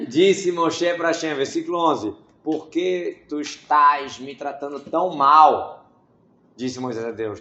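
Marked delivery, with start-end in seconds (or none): 2.4-5.9 pleading Moses. Retold or imitated. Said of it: "Moshe falando assim com Deus".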